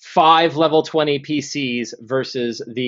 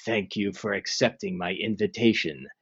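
ancient rasping undead king; 5 semitones lower, 9 dB quieter, faster than usual. Acted. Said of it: "says the Lich Zastam".

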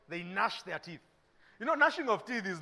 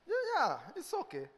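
limp sympathy to mom; 5 semitones higher than usual. Retold or imitated. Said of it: "you call your mom and say".

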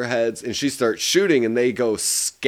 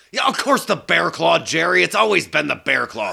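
put-on irritated sergeant, higher voice; mock impatience at being asked the obvious; exasperated cop; 4 semitones higher than usual. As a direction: play a testy cop ordering pastry. Acts out sergeant and donut order.

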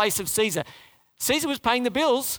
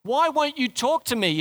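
voicing Pilate; 3 semitones higher than usual. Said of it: "is what Pilate's saying".

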